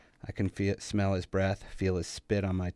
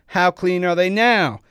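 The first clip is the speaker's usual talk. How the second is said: high, very loud enraged shout; full-force mocking rage; furious taunt; 11 semitones higher, 13 dB louder than usual. A narrator's reading. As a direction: yell the question down at a beaten enemy. Enraged attacker taunting his victim.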